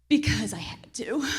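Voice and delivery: unvoiced, confiding whisper; whispered aside. Real, not acted. Wife admitting she had no choice, whispered. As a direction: breathe it like a confession.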